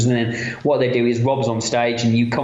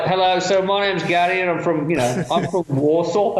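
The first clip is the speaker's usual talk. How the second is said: slightly exaggerated Brummie, pitched higher; playful, higher-pitched Birmingham accent; upped Birmingham accent; 5 semitones higher than usual. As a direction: lay the Birmingham accent on a bit thick. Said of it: "I probably upped my Birmingham accent a little bit".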